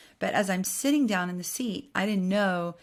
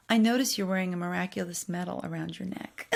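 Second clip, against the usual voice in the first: mildly disapproving remark, understated; judgmental. Retold or imitated. Imitating the woman in the next seat, mildly judgmental. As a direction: imitate a judgmental stranger, lightly. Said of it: "like, so judgmental".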